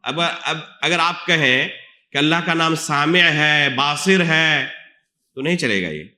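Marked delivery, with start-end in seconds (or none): 2.7-3.2 سامع said saami', long aa and short i; SAA-mi' as a misquoted name; altered form. Shown as a demonstration. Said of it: "نام کے اندر تحریف ہے". 3.8-4.2 باصر said baasir, long aa and short i; BAA-sir as a misquoted name; altered form. Shown as a demonstration. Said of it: "نام کے اندر تحریف ہے".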